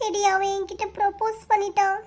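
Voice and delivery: upset, crying to a close friend. Acted. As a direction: blurt it out between sobs. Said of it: "அழுகையை நிறுத்திட்டு சொல்டி".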